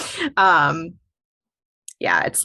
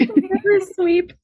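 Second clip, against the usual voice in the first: mock French accent; 13 semitones higher, 5 dB louder, much slower than usual. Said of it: "in the French accent".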